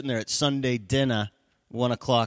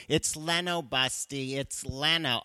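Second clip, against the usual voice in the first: higher-pitched mock wife, saying "Leno" as LEN-oh; correcting wife; 4 semitones higher, slower than usual. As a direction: correct him on "Leno" with a short e. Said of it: "I know, Marie".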